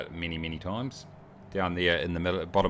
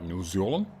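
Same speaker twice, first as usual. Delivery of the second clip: New Zealand? with a broad Kiwi vowel, Zealand flattened toward zolen; mock a heavy New Zealand accent on New Zealand?; thick New Zealand accent. Shown as a demonstration. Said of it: "If you got a real thick accent, it's like".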